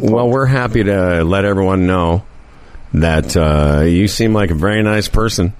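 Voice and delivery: distracted, halting sign-off; polite words with attention elsewhere; multitasking voice. Real, not acted. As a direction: talk while reading something else. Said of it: "that's your multitasking voice that you just did".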